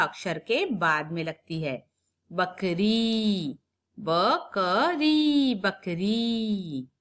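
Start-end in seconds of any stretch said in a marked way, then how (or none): 2.3-3.6 बकरी with the ई held long; slow, long ई. Shown as a demonstration. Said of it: "लंबा होता है". 4.0-5.5 बकरी split slowly, higher; slow syllable split. Shown as a demonstration. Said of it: "लंबा होता है". 5.5-6.9 बकरी with the ई held long; slow, long ई. Shown as a demonstration. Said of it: "लंबा होता है".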